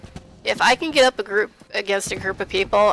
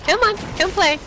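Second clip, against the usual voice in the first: giddy taunt; 8 semitones higher than usual. Real, not acted. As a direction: call the enemies in gleefully. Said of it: "I get way too giddy".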